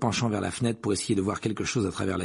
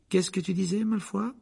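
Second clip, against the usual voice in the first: defiant challenge; 9 semitones higher than usual. Acted. Harry challenges Malfoy.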